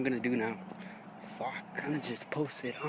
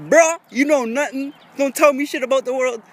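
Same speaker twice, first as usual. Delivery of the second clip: retold loud rant; 11 semitones higher, 11 dB louder than usual.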